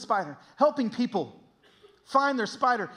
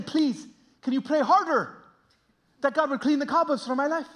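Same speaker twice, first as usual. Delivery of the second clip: put-on higher, accented imploring voice; pleading old lady; 5 semitones higher, 3 dB louder than usual. Miss Ramirez asking pastor to pray harder, pleading. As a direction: beg lightly as a tearful churchgoer. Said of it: "she's crying again".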